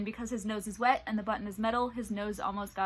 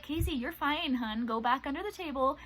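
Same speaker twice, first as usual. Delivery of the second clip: higher, gentle coaxing voice; reassuring dog; 4 semitones higher than usual. Retold or imitated. Owner reassuring her frightened dog Casey, gentle coaxing.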